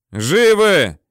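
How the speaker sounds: high, loud shouted check; platoon leader's yell. A narrator's reading. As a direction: call out for survivors. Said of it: "орёт взводный".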